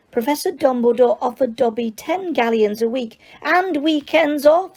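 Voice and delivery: high, squeaky elf voice, eager to please; squeaky house elf. Acted. House elf tells Harry he needs work, high and squeaky. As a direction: pitch it up as an excitable little elf. Dobby continues.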